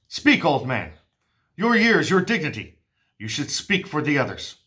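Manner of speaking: lightly voiced king, grand and concerned; King Oedipus. King addresses his kneeling people, lightly voiced regal concern. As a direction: read it as a kingly address to his suffering people.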